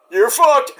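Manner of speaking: giggling through the words; mock daughter voice, laughing. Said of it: "you see Ava go".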